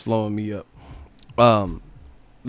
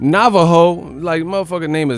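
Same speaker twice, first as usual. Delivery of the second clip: mocking Tim Bradley; 3 semitones higher, 6 dB louder than usual. Streamer mocking the ESPN commentator's announcer voice. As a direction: ham up a clueless TV commentator. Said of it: "Tim Bradley be like".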